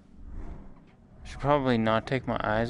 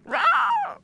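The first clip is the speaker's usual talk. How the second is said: monster roar; 9 dB louder than usual. Retold or imitated. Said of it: "who's gonna turn around and be like".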